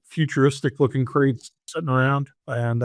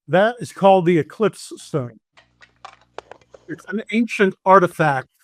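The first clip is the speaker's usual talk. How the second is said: lightly raised villain announcement; 5 semitones higher, 3 dB louder than usual. Acted. Game master voicing the villain presenting the stone, mild grandeur. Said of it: "she says".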